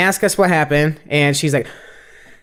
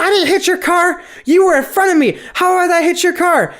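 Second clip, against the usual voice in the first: high, indignant denial in a put-on lady's voice; 13 semitones higher than usual. Lady denying the crash to the driver she hit, in a high indignant voice. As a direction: play the lady who hit you, much higher and insulted. Lady denies, retold argument.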